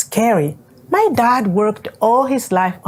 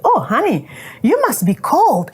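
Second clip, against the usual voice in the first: motherly concern; 4 semitones higher than usual. Retold or imitated. Kind stranger comforts her on train.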